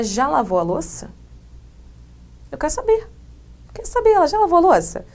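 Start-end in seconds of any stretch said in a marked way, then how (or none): 2.5-5.0 impatient asking. Acted. Acting impatient asker.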